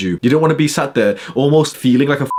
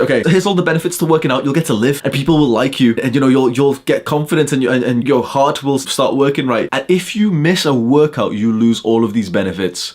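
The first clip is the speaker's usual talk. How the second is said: slightly raised mock pitch, brisk start; lightly mocking trainer; 2 semitones higher than usual. Mocking trainer talking to obese guy, lightly mock voice. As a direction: parody a trainer's warning lightly. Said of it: "you say".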